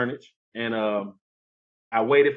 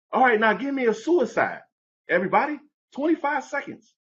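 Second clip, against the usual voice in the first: coach barking drills; 11 semitones higher than usual. Retold or imitated. Coach orders a timed sprint, calling to the team. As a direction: call the drill across the gym.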